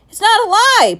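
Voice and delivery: high, loud outburst; boy protesting to his headmaster, shouting suddenly. Acted. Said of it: "Patrick shouted suddenly".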